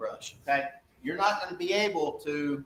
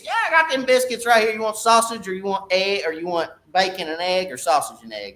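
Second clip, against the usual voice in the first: biscuit seller voice; 4 semitones higher than usual. Acted. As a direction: sell those biscuits like a cheerful counter guy.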